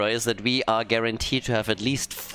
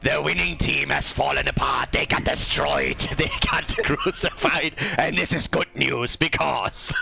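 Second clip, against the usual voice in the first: put-on half-assed German villain accent. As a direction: lay on a cheesy German bad-guy accent. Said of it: "half-assed Nazi Germany accent and then I copy".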